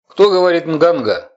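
high, loud, nasal inhuman voice; eldritch horror. Acted. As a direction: speak as if breathing in, unearthly. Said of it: "гнусавый и какой-то даже нечеловеческий голосок". (гнусавый нечеловеческий голосок на вдохе)

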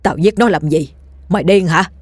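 affronted, accusing retort; indignant denial. Acted. Old man denying he killed the girl, indignant. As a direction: deny it and throw it back. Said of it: "Lão Linh vẫn lắc đầu chối bỏ".

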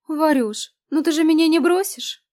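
high, loud begging; pleading wheedle. A narrator's reading. Lena begs Varya not to abandon her, high and wheedling. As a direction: wheedle like a puppy.

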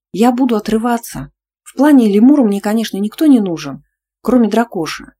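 bubbling over with plans; excited. Acted. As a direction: heroine thinking about the hen party, excited. Heroine excited about party.

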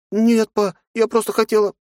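put-on high girl's voice, stammering apology; a scared little girl caught out; frightened young girl. A narrator's reading. Nastya stammers an apology to her stern father.

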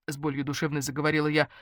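ordinary delivery

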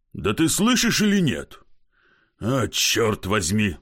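put-on drunk coaxing plea. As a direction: sweet-talk her awake, then snap. Drunk husband pleading at window.

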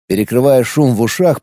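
ordinary delivery

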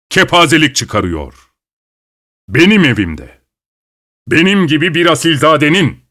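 pompous aristocrat indignation; indignant. Acted. Offended host protests loudly.

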